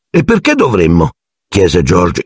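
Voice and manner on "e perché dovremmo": high-pitched, appalled question; horrified. A narrator's reading. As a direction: recoil at the very idea. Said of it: "inorridito alla sola idea".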